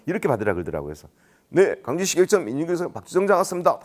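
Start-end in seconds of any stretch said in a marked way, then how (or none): 1.5-3.8 phone greeting. Acted. New official answering a call, eager formal greeting. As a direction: rattle off the formal title brightly into the receiver. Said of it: "이렇게 전화를 받았어요".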